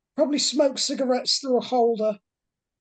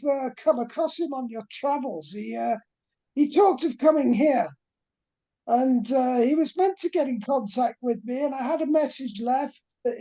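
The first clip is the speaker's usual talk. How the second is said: flamboyant British professor; 3 semitones higher than usual. Acted. Professor Fontaine pleads with the investigators, lightly posh and fussy. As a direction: play the flustered posh professor missing his student.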